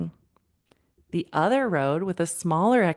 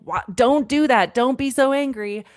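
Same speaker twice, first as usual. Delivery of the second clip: louder, higher imitated scold; mock scolding; 5 semitones higher, 4 dB louder than usual. Mom imitating her old reaction to an angry kid, mock scolding. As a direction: play the frazzled parent snapping. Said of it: "Instead of being like".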